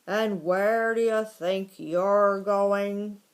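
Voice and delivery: loud, slow, drawn-out challenge; disagreeable. A narrator's reading. Gopher confronting the mouse in its tunnel, disagreeable. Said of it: "a disagreeable voice ahead of him said".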